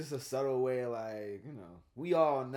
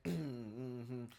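ordinary talk

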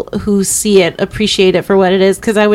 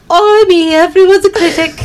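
high, loud stage-Irish lilt; mock Irish accent; 9 semitones higher, 4 dB louder than usual. Suggesting a comeback to the sister, hammed-up Irish accent. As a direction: ham up a bad Irish accent. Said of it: "you should have said, like".

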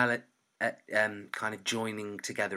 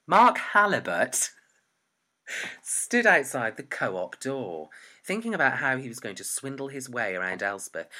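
story narration; 6 dB louder than usual. Acted. Reads own story aloud.

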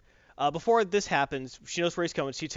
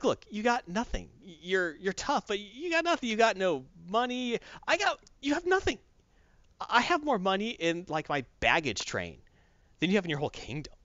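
slow, higher mocking boast; taunting emperor; 6 semitones higher than usual. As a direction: draw out each boast to taunt her. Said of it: "when he's taunting her".

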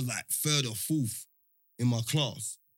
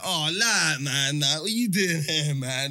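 mock jeering; 4 dB louder, slower than usual. Rivals jeering at him in story.

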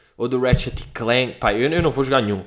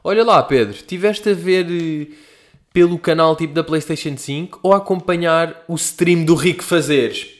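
lightly voiced eager fan asking; curious listener voice; 5 semitones higher, 4 dB louder, slower than usual. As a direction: ask it like a curious viewer. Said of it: "E agora vocês perguntam".

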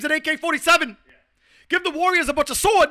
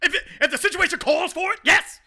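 Stephen A. Smith impression. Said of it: "worst imitation of Stephen A. Smith".

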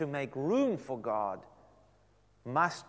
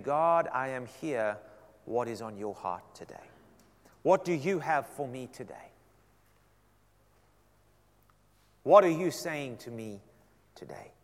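humble prayer; 2 semitones lower than usual. Retold or imitated. Humble listening prayer quote.

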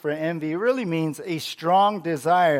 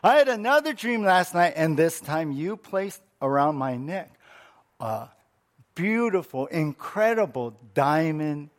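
excited wife. Acted. Wife's third dream, most excited.

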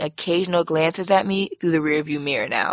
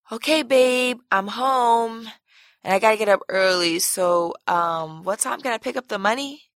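as polite as possible; 4 semitones higher than usual. Retold or imitated. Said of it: "I asked as polite as possible".

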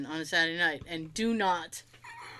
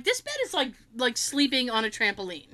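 animated complaint; 2 semitones higher than usual. Retold or imitated. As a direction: exclaim about the bouncy bed. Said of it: "that's exactly how I was saying it".

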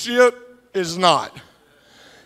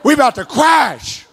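mock laid-back Uber driver; faster than usual. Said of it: "Mister Man Bun turns around and says".

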